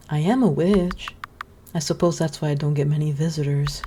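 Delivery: lightly voiced gentle witch. Witch greeting the scarecrow boy, lightly voiced kindly.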